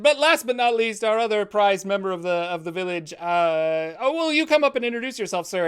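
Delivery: put-on old priest. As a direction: bless the crowd like an ancient holy man. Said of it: "And he's like".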